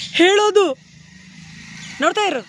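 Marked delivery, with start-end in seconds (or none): 0.1-0.7 ಹೇಳೋದು loud and high, every syllable sounded; no swallowed syllables. Shown as a demonstration. Director corrects child's swallowed word, ಹೇಳೋದು loud and complete. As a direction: give all of ಹೇಳೋದು in full, loudly. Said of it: "ಹೇಳೋದು ನುಂಗ್ಬಿಟ್ಟೆ ಅಕ್ಷರ".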